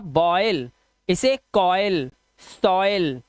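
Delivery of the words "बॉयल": put-on बॉयल said "BOY-ul", pitch falling; demonstrated pronunciation. Shown as a demonstration. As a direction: model बॉयल with an "oy" glide. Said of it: "क्या पढ़ेंगे इसे आप?".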